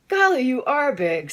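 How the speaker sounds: high, loud delighted gasp; awed exclamation. Acted. Small marvelling at the huge dog, high and loud. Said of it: "said Small".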